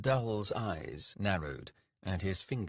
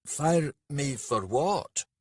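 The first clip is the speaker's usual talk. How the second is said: slow, louder annoyed retort; 7 semitones higher, 5 dB louder, slower than usual. A narrator's reading. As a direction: bite it back, irritated. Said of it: "Dull was annoyed".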